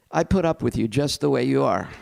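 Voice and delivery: mildly grudging, stressing put; grudging tolerance. Shown as a demonstration. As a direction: let it come out a bit begrudging. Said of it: "Try that out with your friend".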